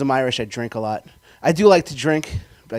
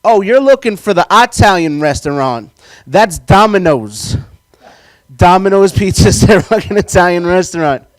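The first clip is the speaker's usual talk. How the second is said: loud, slow hick drawl; West Virginia guy; 6 semitones higher, 10 dB louder, slower than usual. Retold or imitated. Comedian mocking the venue guy, slow loud drawl. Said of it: "The guy on the other end of the line in West Virginia goes".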